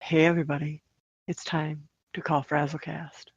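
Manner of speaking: phone voice. Pretend. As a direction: put on your best phone voice. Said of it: "Should I use my phone voice".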